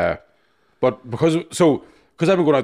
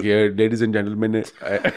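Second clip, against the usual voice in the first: laughing through it. Retold or imitated. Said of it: "I'm really bad at accents".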